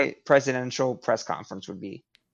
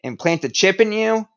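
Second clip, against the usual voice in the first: a touch raised, playing an exasperated president; mock scolding rant; 4 semitones higher than usual. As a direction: lecture the public in mock outrage. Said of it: "I'd be cursing at everyone the entire time".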